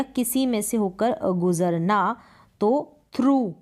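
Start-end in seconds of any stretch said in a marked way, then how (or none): 3.2-3.5 through said as thru with a long oo; model pronunciation. Shown as a demonstration. Teacher modelling through with a long oo. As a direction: stretch the oo in through. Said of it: "ये pronunciation है through".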